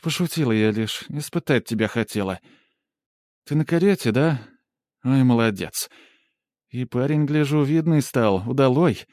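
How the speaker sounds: coaxing sister. Acted. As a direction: sweet-talk him like a pitiful orphan sister. Polina sweet-talking the hero.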